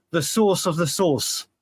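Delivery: slow "source of the sauce", the two nouns sounding the same; both words identical. Shown as a demonstration. Showing what North Americans ask, "source" and "sauce" alike. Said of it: "'cause we say it the same".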